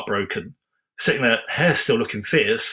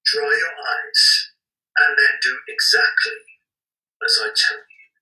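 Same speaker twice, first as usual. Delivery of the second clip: chipmunk pitch-up; 3 semitones higher, 3 dB louder than usual. Shown as a demonstration. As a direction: squeak it out like a sped-up tape. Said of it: "repeated take, pitched up".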